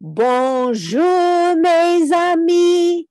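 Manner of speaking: French bonjour, mes amis; French greeting. Shown as a demonstration. Teacher models a French greeting for kids to echo. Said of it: "do it in another language".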